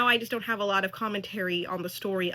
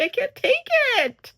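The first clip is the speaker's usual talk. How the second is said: high, loud exasperated burst; overwhelmed exclamation; 13 semitones higher, 7 dB louder than usual. Real, not acted. Viewer reacting to a soapy show, overwhelmed. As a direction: blurt it out, overwhelmed by the melodrama.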